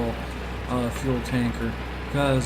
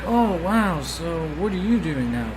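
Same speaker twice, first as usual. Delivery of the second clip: higher, louder imitation of an interested acquaintance; imitated surprise; 5 semitones higher, 3 dB louder than usual. Retelling an old schoolmate catching up, imitated surprise. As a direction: act out her wowed reaction, pitched up.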